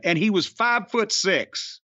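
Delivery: usual speaking voice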